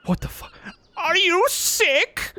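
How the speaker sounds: very high, squeaky cartoon voice; squeaky character voice. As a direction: squeak like a panicky cartoon critter.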